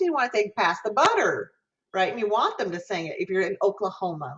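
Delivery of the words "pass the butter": Southern "butter" with a hooked R; Southern dialect. Shown as a demonstration. Teacher showing diction for a musical, Southern dialect. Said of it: "singing something in a Southern dialect".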